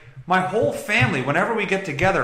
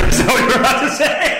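laughing; 8 semitones higher, 6 dB louder than usual. Real, not acted. Laughing jab.

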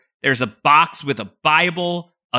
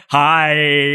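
creepy greeting; 5 dB louder than usual. Retold or imitated. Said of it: "I thought it was so creepy".

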